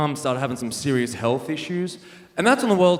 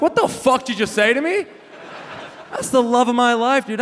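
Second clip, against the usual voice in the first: mock outrage; 7 semitones higher than usual. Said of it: "I'm like".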